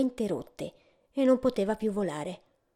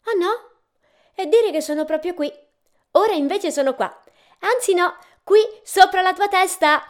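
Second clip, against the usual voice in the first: high, louder, mischievous taunting; playful teasing; 10 semitones higher, 7 dB louder than usual. A narrator's reading. Invisible host darts about above the searching guest, teasing playfully. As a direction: tease like someone playing hide-and-seek. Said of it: "La voce aveva voglia di scherzare".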